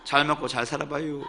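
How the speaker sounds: playful Chungcheong accent, lingering on each ending; Chungcheong dialect. Shown as a demonstration. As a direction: recite the poem comically in Chungcheong satoori. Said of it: "충청도 버전이 더 재밌는 것 같아요".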